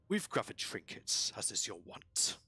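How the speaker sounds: lightly rough lizard voice; a hint of a rasping lizard creature; large lizard. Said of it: "The lizard says".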